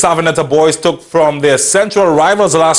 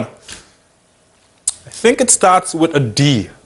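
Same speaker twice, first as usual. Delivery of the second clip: sly teasing hint; 2 semitones lower, much slower than usual. Acted. Teasing hint about a name.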